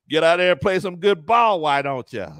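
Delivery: lightly voiced old-time tough guy; a touch of a movie mobster barking orders; 1920s gangster. Owner ordering the team to win, a mild gangster voice. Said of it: "you sound like a nineteen twenties gangster".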